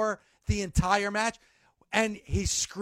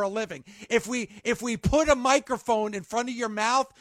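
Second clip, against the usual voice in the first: telling off the boss. Retold or imitated. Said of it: "I say".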